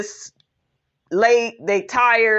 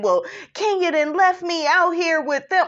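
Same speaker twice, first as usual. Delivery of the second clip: a higher, laughing-crying mock whine; mock whining; 6 semitones higher than usual. Mocking Mayetta complaining about Kenya, whiny. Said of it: "She's bitching and moaning".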